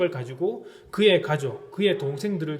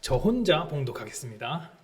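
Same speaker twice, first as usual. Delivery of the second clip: usual speaking voice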